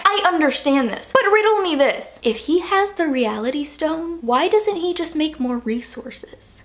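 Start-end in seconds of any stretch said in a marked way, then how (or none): 2.2-6.6 slow, hushed puzzled question; puzzled challenge. Real, not acted. Fan riddling out Thanos's plan, hushed challenge. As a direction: pose it slowly, almost under the breath.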